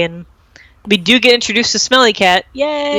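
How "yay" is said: high, drawn-out yay; celebratory squeal at modest volume; real cheer. Real, not acted. Cheering for Smelly Cat's introduction.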